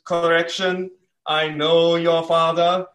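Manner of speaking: put-on a self-confessed weak stab at the wise old monkey; hint of Rafiki, barely put on; Rafiki impression. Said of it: "I don't do impressions well".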